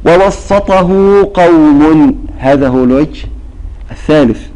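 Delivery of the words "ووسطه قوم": verse recited. Shown as a demonstration. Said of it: "نرى".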